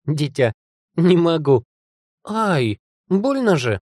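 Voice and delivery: high, exclaiming delivery; overcome with amusement. A narrator's reading. Ёлка overcome by a joke, high amused exclamations. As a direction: exclaim as if helpless with laughter. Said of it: "Смех ёлки ворвался в мысли ураганом".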